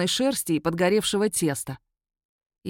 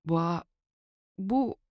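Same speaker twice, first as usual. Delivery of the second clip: inarticulate stammer; 4 dB quieter than usual. A narrator's reading. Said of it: "нечленораздельное".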